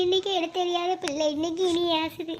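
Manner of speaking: high, whining cry of complaint; acted crying, pitched high; tearful wailing. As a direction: wail as the wronged mother. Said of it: "சும்மா அழுதுட்டு இருக்காதீங்கம்மா".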